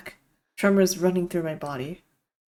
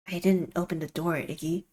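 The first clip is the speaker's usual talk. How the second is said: slow, heavy, lower voice; 5 semitones lower, 5 dB quieter than usual. A narrator's reading. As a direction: drag the words, weighed down. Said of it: "Bugs says slowly, heavily".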